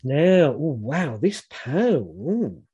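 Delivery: swooping, playful wonder at a discovery; acted intrigue. Woman in sex shop hinting to partner, acted intrigue. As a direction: coo over it with exaggerated curiosity. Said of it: "you can sort of go".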